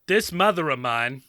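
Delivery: mock Boston accent; lightly put-on Boston accent; continued put-on accent. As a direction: take over in a rough Boston accent. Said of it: "please continue the accent".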